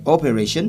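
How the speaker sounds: "operation" with the stress misplaced; non-English pronunciation. Shown as a demonstration. Teacher gives students the faulty example, non-English pronunciation. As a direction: put the stress of "operation" off the last-but-one syllable. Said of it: "is not English".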